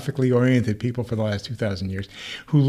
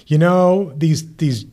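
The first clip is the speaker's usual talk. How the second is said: higher, louder, fed-up divine rant; mock exasperated God voice, raised and loud; 4 semitones higher, 3 dB louder than usual. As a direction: vent like a god whose people won't obey. God retold, fed up with Israelites.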